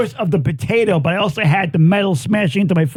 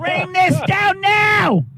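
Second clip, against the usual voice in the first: shouted demand; 9 semitones higher, slower than usual. Retold or imitated. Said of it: "quoting his own scream".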